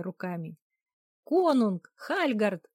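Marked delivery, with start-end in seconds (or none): 1.2-2.6 high, loud cheering call; shouting. A narrator's reading. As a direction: cheer the players on at full volume. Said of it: "кричали я и Алинка".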